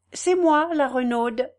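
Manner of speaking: lightly voiced smiling maid; smiling greeting. The Renaude introducing herself at the door, smiling. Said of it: "dit-elle en souriant".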